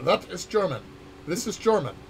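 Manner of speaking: lightly German-accented English; just a flavor of a German accent; touch of German accent. Shown as a demonstration. Developer demonstrating what sounds a bit German, light German accent. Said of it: "that has the touch of the accent".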